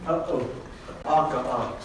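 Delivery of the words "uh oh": Uh-oh with a sharp stop in the middle; glottal stop. Shown as a demonstration. Teacher repeating uh-oh to show the stop. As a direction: cut the air off between uh and oh. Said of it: "it's a little stop in it".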